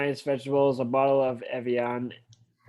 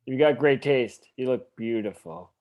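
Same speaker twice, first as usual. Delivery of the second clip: gentle, shy; 4 semitones lower than usual. Acted. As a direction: pay the compliment shyly, with feeling. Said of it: "He says it gently, shyly, with feeling".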